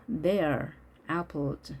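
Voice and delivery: slow model "they're", then "apples"; contracted, A dropped. Shown as a demonstration. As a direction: say "They are" as one syllable, "they're". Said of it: "아 발음이 없어진 거죠". (They are에서 아 발음 없이 they're로)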